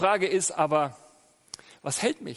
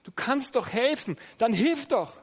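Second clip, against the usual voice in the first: God speaking to you; 5 semitones higher than usual. Retold or imitated. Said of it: "Gott sagt dir".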